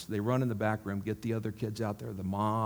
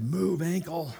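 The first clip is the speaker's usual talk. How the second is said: higher-pitched retold command; a little louder; 6 semitones higher, slower than usual. Preacher's third prayer over the ankle, a little louder. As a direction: raise the pitch as if commanding, only slightly louder. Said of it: "a little louder".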